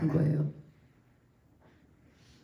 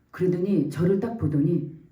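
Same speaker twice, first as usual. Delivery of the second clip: normal talking voice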